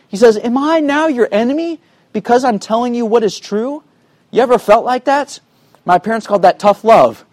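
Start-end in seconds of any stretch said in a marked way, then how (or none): 0.4-3.8 higher, pleading as an upset Paul; begging, urging. Retold or imitated. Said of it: "It's really kind of a begging, urging tone".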